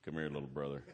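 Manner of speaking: low voice of a big brother; imitated big brother. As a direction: summon him, low and understated. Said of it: "he goes".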